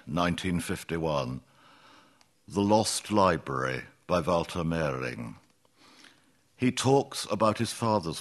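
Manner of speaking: deliberate recital, line by line; poem reading. Acted. Poet reads History, a poem about a found book, measured recital. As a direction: read it as verse, with spaced phrases.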